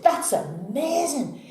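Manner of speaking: high, drawn-out mock wonder; amazed. Barman praises cowboy's shooting, amazed. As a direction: stretch it out in high-pitched awe.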